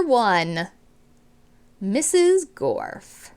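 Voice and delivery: clear, expressive read-aloud to a class; storybook reading voice; reading to children. Acted. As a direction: read it out like a teacher sharing a book. Teacher reads book intro to class.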